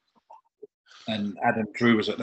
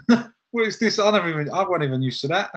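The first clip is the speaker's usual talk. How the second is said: pitched way up, laughing through the words; mock astonishment at an unexpected meal; amazed disbelief; 6 semitones higher, faster than usual. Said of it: "I was like".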